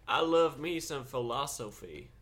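slow, slurred-sounding put-on accent; muddled would-be Scottish accent; drunk-sounding mock accent. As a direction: drawl it slowly in a muddled accent. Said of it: "That's not Scottish. That's just drunk".

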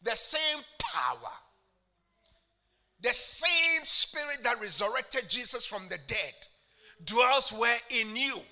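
loud, rising preacher's cadence; fervent preaching. Real, not acted. Preacher proclaiming the same Spirit to the congregation, fervent. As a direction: drive each phrase home from the pulpit. Preaching scripture at full force.

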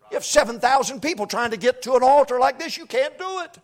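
shouted, high-pitched preacher's cry; fiery revival preaching; full-force preaching. Acted. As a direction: bring it up to a roaring pulpit shout.

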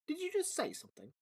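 a man who can't believe his ears; startled question. Acted. Dom asking the pigeon, high and stunned. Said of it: "he asked".

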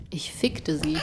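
whispering. Real, not acted. Saying a crude quote.

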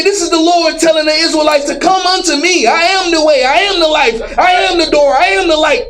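emphatic pulpit proclamation, each line hammered; rising street sermon, punching every I am; preaching. Acted. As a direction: proclaim it like the Lord's own voice. Preacher proclaims Lord's words.

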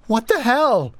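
high, loud panicked scream. A narrator's reading. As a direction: break into a terrified scream. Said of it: "Her voice rose into a scream as she finished".

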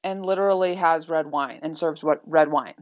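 a playful retelling of her scandalized complaint; mock indignant disbelief. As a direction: drag out the who like an exasperated guest. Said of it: "she said, was to say".

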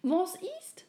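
high whispered worried question; whisper, sensing something is wrong; hushed. Acted. Little soul asks the silent friend, whispering. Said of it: "sehr still geworden".

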